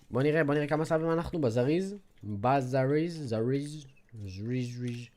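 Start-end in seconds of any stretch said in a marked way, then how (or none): 2.2-5.1 mock echo fade. Playful repeated word fading.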